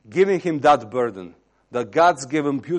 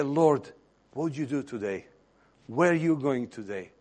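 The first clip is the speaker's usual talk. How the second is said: softer, intimate asking; quiet prayer; 5 dB quieter than usual. Acted. Believer with eyes closed asking the Lord about today, quiet prayer. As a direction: ask the Lord gently, as in private.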